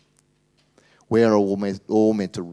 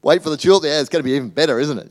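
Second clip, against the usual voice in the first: playful tease; 6 semitones higher, 10 dB louder, much faster than usual. Real, not acted. Teasing aside to the congregation.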